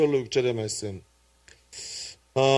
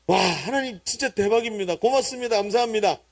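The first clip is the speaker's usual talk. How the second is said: higher-pitched, amazed gratitude; exclaimed thanks; 5 semitones higher than usual. Acted. Believer thanks God for answered prayer, exclaiming. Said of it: "느낌표".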